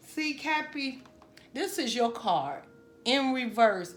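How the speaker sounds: getting emotional. Real, not acted. Tarot reader moved while reading for Capricorn, emotional. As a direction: let the feeling rise as you speak to her. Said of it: "I do not like getting emotional".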